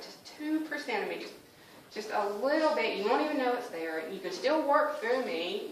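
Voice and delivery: pleading. Retold or imitated. Bargaining plea to God.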